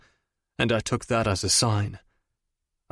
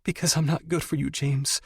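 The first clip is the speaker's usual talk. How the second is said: higher, fast and upset; tearful plea; 6 semitones higher than usual. A narrator's reading. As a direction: rush out the confession. Audrey pleading.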